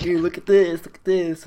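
imitating an excited boss. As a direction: show off the find, eager. Donnie finds the possum head.

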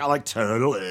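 mock Valley Girl. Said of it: "With a Valley Girl".

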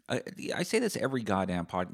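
normal talking voice

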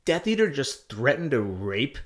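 high loud startled whoa; shocked. Retold or imitated. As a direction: burst out in disbelief. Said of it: "So I was like".

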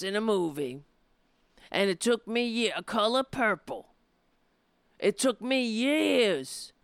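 hammed-up Whoopi talk-show lecturing; Whoopi impression. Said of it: "when I talk like Whoopi".

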